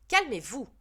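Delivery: teacher raising her voice to stop the pupils fighting; stern call to order. Acted. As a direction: snap the class back to order. Teacher stops a fight in class.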